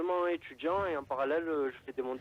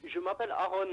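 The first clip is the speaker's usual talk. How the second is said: caller on a bad phone line; crackly phone voice; radio show caller; 6 semitones higher, faster than usual. Real, not acted. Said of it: "on t'entend très mal".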